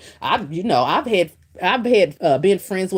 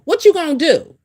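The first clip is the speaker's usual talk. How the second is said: higher, louder repeat of the question; emphatic challenge; 10 semitones higher, 4 dB louder than usual. Real, not acted. Challenging wives who brag about husbands, higher and louder. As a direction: push the question hard the second time.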